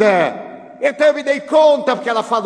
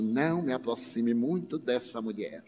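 softer, hushed warning; softly; 11 semitones lower, 12 dB quieter than usual. Retold or imitated. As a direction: say it low, as if she might overhear. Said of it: "ela me falou baixinho". (falando baixinho)

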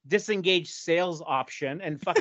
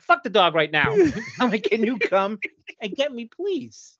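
louder, higher pleading, slowing on please; desperate plea; 6 semitones higher, 6 dB louder than usual. Retold or imitated. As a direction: beg a friend for a ride.

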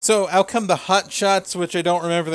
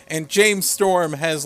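ordinary talk, nothing marked

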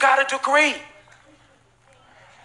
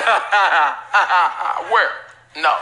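mock incredulous laughter in a lower put-on voice; imitating Sarah's laugh; 4 semitones lower than usual. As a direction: laugh at the idea of a baby at ninety.

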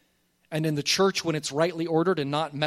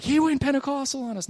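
mock congregant aside; 9 semitones higher than usual. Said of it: "Everyone's like".

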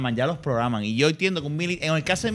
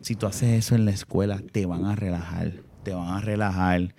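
scolding parent; 6 semitones lower than usual. Retold or imitated. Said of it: "y yo le digo".

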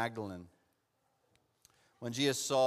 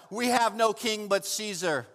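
loud, high, half-sung cry; chief priest's cry; 9 semitones higher, 6 dB louder than usual. Acted. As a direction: proclaim it to the crowd. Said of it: "He cries out".

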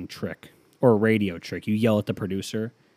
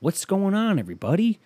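mock cheerful arrival; 8 semitones higher, slower than usual. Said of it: "show up and be like".

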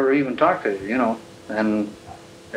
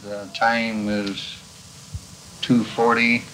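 scratchy archival tape sound. Real, not acted. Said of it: "I got this recording from the archives".

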